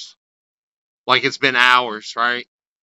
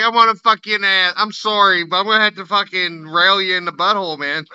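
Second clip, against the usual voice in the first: higher, lightly voiced apologetic Canadian inmate; mock Canadian prisoner; 5 semitones higher than usual. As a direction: play a polite Canadian convict, pitched up. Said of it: "Canadian prisons is like".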